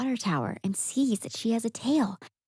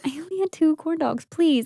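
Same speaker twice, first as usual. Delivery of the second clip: mock defensive Patty; 8 semitones higher than usual. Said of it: "and Patty goes".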